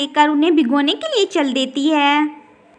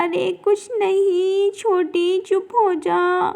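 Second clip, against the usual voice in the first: tearful comfort; 3 dB quieter, slower than usual. Acted. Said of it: "चंदा बीमारी की वजह से रो रही है".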